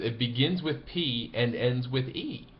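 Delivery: slow, deliberate, spelling it out; dry caddie hint. Retold or imitated. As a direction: lay out the riddle slowly and drily. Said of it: "repeats himself and says".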